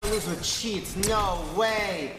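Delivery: mocking gamer rant; trash talk. Real, not acted. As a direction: jeer at the cheaters like a sore gamer. Trash-talking opponents after a game.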